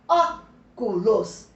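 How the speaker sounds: "Óculos" very slow, syllable by syllable, strong Ó; teacher's syllable demo of "Óculos", first one strongest; stress on first syllable. Shown as a demonstration. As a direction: hit the Ó of "Óculos", then space out the rest. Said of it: "A sílaba ó é a mais forte".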